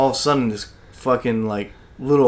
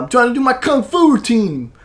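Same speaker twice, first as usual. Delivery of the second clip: high-pitched, put-out grumble; mock indignation; 10 semitones higher than usual. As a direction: sound offended that they ruined the routine. Retold indignant complaint.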